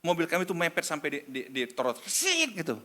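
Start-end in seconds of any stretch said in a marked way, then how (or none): 2.1-2.6 high screech of tyres; skidding noise imitation. Car swerves up to the pavement, screeching imitation. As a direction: make a high skidding whizz.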